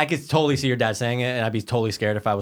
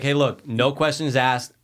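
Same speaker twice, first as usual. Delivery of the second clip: slow mock plea; much slower than usual. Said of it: "to be like".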